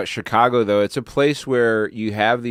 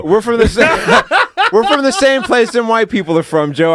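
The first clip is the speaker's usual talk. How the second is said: higher, louder mock bafflement through laughter; acted protest; 4 semitones higher, 5 dB louder than usual. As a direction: imitate a bemused Chicago local protesting. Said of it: "they're like".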